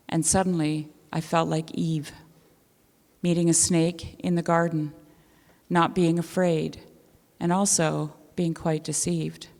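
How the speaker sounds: measured literary reading, phrases set apart by pauses; story reading. Acted. Reading what they wrote about a snake encounter to listeners, measured narration. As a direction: read your own essay aloud, each sentence settling downward. Reads own written piece aloud.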